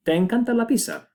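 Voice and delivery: high lifted question; question tune. Shown as a demonstration. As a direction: ask "¿Te encanta la pizza?" with high questioning pitch. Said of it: "If we wanna form questions".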